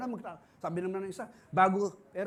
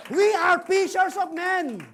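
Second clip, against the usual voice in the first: slow; 9 semitones higher, 12 dB louder, much slower than usual. Acted. Repeated refrain slower.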